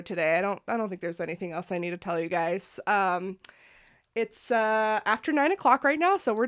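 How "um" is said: ordinary talk, nothing marked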